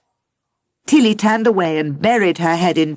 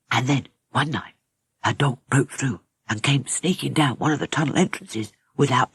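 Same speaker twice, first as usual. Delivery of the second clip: heavy, sad telling; faster than usual. Acted. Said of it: "His voice was heavy and sad, as if telling a story".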